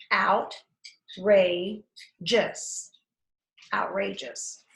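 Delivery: outrageous drawn out slowly, syllable by syllable; slow syllable chop. Shown as a demonstration. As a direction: stretch outrageous out slowly in pieces. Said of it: "you're going to chop it".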